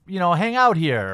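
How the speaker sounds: high-pitched, pleading complaint as an imagined bystander; protesting guy. Acted. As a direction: voice a put-upon guy objecting, pitched well up. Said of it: "what I see this guy saying is like".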